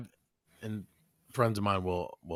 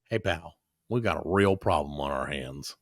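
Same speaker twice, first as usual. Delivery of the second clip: mock tough guy; 9 semitones lower, 5 dB quieter than usual. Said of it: "my favorite one is to say".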